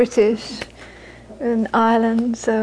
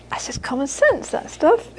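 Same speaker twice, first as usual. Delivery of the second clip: softer, rising to a high end; lightly voiced mother; 4 semitones higher, 3 dB quieter than usual. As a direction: toss it off, climbing at the end. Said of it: "She'd say".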